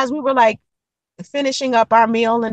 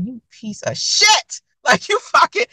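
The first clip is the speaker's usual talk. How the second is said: slow disgusted insult; 4 semitones higher, slower than usual. Retold or imitated. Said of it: "I was like".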